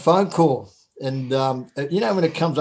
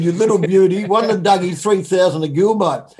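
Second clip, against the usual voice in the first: gloating; 3 semitones higher, 5 dB louder than usual. Retold or imitated. Gloating to himself.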